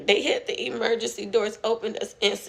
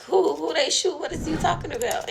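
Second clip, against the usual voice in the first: panicked; 6 semitones higher than usual. Retold or imitated. Panicked reply to shooting news.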